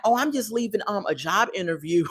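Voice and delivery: soft, hesitant imitation of a liar; mock a man quietly fibbing; sheepish fib. Acts out J K's lie.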